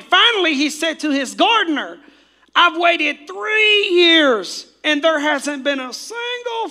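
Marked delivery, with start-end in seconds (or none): 2.5-6.7 higher, louder, slow exasperated master; stern owner. Acted. Owner telling the gardener he has waited three years, fed up. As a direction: make the owner fed up and demanding. Owner demands tree be cut.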